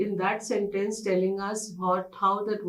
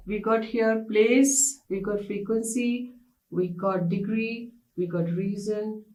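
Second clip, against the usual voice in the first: "place" drawn out, each category stressed; recap list. Shown as a demonstration. Teacher recapping adverb types for the class. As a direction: tick off each type clearly. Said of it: "and another thing is when we are doing manner".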